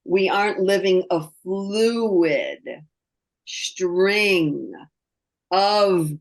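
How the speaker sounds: words stretched out with pauses; slow, spaced-out phrase for emphasis; drawn out. Shown as a demonstration. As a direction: stretch it like a long string. Illustrating a fluid string of moments.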